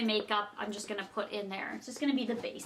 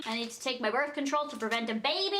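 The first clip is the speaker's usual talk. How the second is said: laughing. Real, not acted. Laughing at her own joke.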